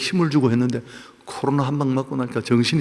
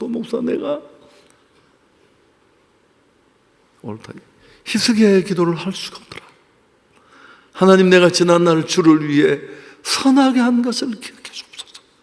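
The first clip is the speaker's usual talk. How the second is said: mock-crying, tearful voice, higher pitch; 6 semitones higher, 6 dB louder than usual. Retelling what his former senior pastor's wife said to him, imitating her crying. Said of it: "나를 잡고 막 울면서".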